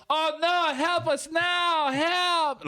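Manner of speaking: high, loud cry for help in a mock Asian accent; fake Asian accent. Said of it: "they're doing fake Asian accents".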